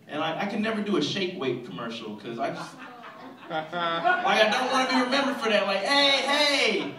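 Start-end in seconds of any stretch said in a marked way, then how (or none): 5.8-6.9 high, loud, laughing shout of recognition; excited recognition. Acted. Stranger on the street shouting at the shake weight guy, excited. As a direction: yell out like spotting a celebrity.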